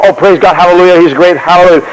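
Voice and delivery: offhand, run-together hallelujahs; casual praise. Acted. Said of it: "We just casually go".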